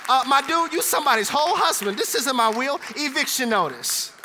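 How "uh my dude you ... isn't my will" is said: Jesus talking straight. Acted. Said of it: "he would say".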